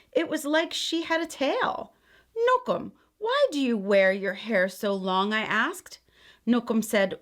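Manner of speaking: gentle, expressive read-aloud; storybook reading. A narrator's reading. Aunt reading a picture book to children, gentle storytelling. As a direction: read it like a bedtime story for kids.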